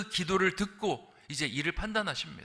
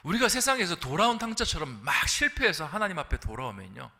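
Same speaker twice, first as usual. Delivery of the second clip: ordinary talk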